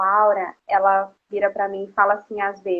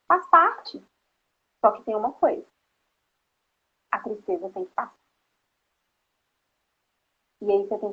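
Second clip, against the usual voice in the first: gentle mother. Retold or imitated. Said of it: "eu abaixo na altura dela e falo".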